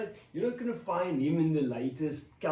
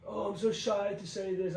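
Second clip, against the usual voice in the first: higher-pitched mimicry of being shy; mock shyness; 5 semitones higher than usual. Recalling the first days on camera, mock shy. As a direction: lightly imitate a bashful earlier self. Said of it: "at the start it was like".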